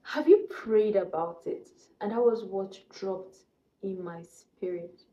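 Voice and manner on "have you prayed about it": gentle inner voice. Retold or imitated. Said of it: "the Holy Spirit told me".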